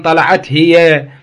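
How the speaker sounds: "طلعت هي" drawn out slowly; slow teaching example; slow example read. Shown as a demonstration. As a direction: spell out "طلعت هي" slowly for the students. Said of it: "أو أقول مثلًا".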